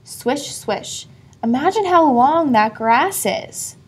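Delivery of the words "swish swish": softer and softer to a whisper; fading swish. A narrator's reading. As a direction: let it fade into a whisper. Grass sound fading.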